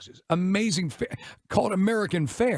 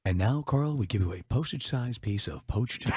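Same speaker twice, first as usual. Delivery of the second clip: snooty waiter voice; 3 semitones lower, 3 dB quieter, slower than usual. Acted. Mocking a pretentious server.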